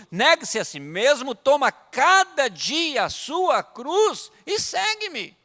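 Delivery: loud, high scripture proclamation; fervent sermon quotation; full-force preaching. Real, not acted. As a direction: hammer out the verse, stretching key words.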